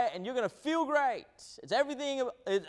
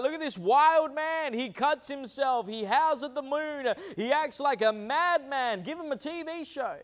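mocking TV hype; 6 semitones higher than usual. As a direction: sell the madman like a TV promoter. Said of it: "they would have brought everything and be like".

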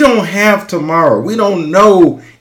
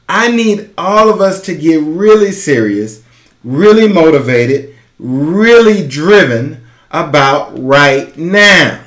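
passionate urgency. Real, not acted. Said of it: "if you hear the passion in my voice".

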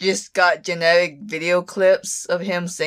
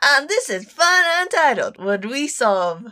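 bad Australian accent; 4 semitones higher than usual. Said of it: "I can't do the accent".

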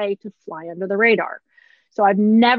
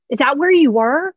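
surprised patient; 4 semitones higher, 5 dB louder than usual. Retold or imitated. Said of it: "she goes".

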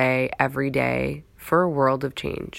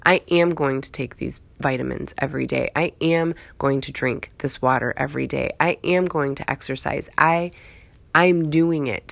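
spoken affirmation. Shown as a demonstration. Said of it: "Speak it into existence".

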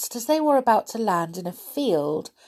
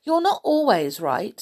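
obstinate; 3 semitones higher, 3 dB louder than usual. Acted. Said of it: "said Molly obstinately".

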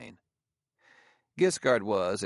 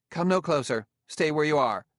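sharp, higher and louder warning; sharp command; 6 semitones higher, 5 dB louder than usual. A narrator's reading. Woman in a dim room halting intruders, sharp and loud. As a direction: snap a stern order to stop them. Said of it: "A female voice said sharply".

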